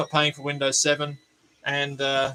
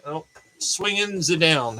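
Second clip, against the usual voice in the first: jokey fake German accent; mock German accent; slower than usual. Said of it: "swinging ze down".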